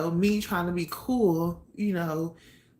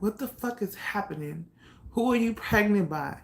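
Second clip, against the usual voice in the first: angry questioning; 4 semitones higher than usual. Retold or imitated. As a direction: interrogate her harder each time. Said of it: "he just had so many questions".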